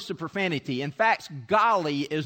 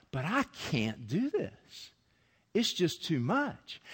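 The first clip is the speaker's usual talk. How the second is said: overwhelmed Mary; 5 dB quieter, slower than usual. Acted. Preacher voices overwhelmed Mary.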